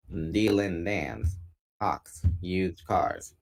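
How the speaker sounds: slow, even robot voice. Pretend. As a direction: spell it out like a robot. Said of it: "I'm trying to do a robot voice".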